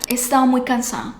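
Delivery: fast, "He estado muy cansada" run together like one word, d dropped. Shown as a demonstration. Teacher showing the phrase fused into one word. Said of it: "Es casi como una sola palabra".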